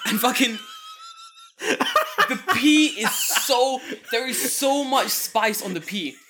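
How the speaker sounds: laughing hard through the words; words breaking up with laughter. Real, not acted. Laughing while telling his cohost about the clip. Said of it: "laughs retelling it".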